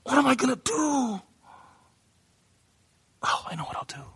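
frantic hand-wringing fretting, overplayed; mock panicking God. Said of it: "Was he going".

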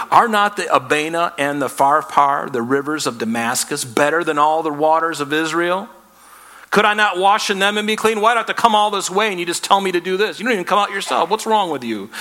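Naaman in a rage. Retold or imitated. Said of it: "turned away in a rage".

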